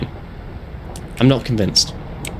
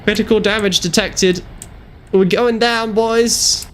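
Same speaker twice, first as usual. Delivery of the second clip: higher, urgent shout for a medic; man down shout; 8 semitones higher than usual. Pretend. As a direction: yell like a crashing pilot. Plane going down in game.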